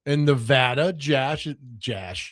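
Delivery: a mild put-on Boston accent. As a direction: say it with a Boston twang. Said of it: "What is that, a Boston accent?".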